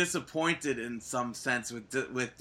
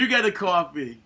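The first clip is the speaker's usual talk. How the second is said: Oprah giveaway; 3 semitones higher, 4 dB louder than usual. Pretend. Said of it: "give me some Oprah".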